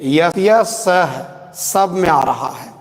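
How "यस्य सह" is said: यस्य सह said slowly, clearly; slightly slow repeat of यस्य सह; slow demo. Shown as a demonstration. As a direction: model यस्य सह for the class. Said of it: "देखिए".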